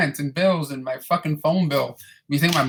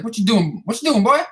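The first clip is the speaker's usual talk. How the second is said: higher, teasing put-on voice for the lady; coworker lady's voice; 6 semitones higher, 4 dB louder than usual. Retelling his boss lady teasing him, in a higher mock voice. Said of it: "she's like".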